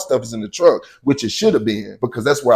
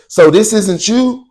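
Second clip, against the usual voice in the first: smug cop question; 8 semitones higher, 3 dB louder, slower than usual. Retold or imitated. Cop retold confronting him.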